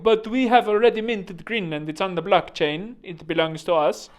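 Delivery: a touch of mock indignant objection; lightly voiced Danish comeback; mock Denmark. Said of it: "and Denmark's like".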